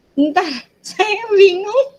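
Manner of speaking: flustered laugh, pitch up high. Real, not acted. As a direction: break into an embarrassed laugh. Loses track mid role-play.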